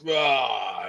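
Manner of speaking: drawn-out "ah" sound effect; imitated destruction noise. Telling friend he ripped out a wall, imitated noise. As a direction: mimic a wall getting torn out.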